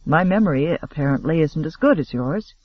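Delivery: even, understated and bland; perfectly bland. Acted. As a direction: hold back every feeling, keep it bland. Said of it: "his voice was perfectly bland".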